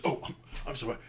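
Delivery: captain handing over his own cabin, lightly voiced; apologetic minotaur host. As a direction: apologize for the candle, then boast. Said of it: "looks at you and goes".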